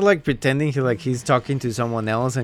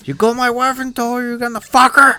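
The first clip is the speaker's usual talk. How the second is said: mock angry husband; 8 semitones higher, 3 dB louder than usual. Acting the angry prank caller.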